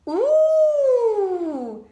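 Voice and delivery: high, loud squeaky bee voices; bright high greeting from tiny bees; little bees. A narrator's reading. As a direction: chirp it up like tiny excited bees. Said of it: "said the little bees".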